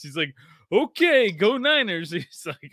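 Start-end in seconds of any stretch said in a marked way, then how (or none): 0.7-2.1 put-on high, wary little kid voice; lightly voiced timid five-year-old; young son's voice. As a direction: play the spooked kid humoring his dad. Kid's reply voiced in story.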